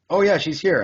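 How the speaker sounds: high, loud, breezy girl voice, mocking; mocking the friend's breezy answer, high and loud; mock airy friend. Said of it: "She's like".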